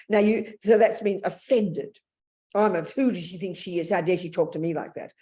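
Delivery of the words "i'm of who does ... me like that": voice of pride. Retold or imitated. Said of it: "That's the voice of pride".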